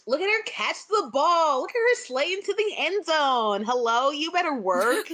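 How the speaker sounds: high, hyped drag ball cheer; ballroom cheer. Pretend. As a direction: hype her up like a ballroom emcee.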